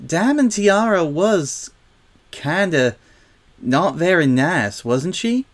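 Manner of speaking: high, slow, gapped phrasing; careful, hesitant. A narrator's reading. Apple Bloom tiptoes round Diamond Tiara's faults, hesitantly. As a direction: pick each word gingerly, with pauses. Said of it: "trying to choose her words carefully".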